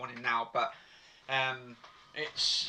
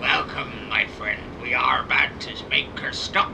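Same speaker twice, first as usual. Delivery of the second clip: put-on old pirate man; 3 semitones lower, 4 dB louder than usual. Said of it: "I sound like an old pirate man".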